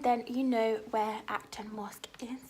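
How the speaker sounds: slow, whispered aside; knowing whisper. Real, not acted. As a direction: whisper it like an insider's tip. Knowing aside to West London viewers.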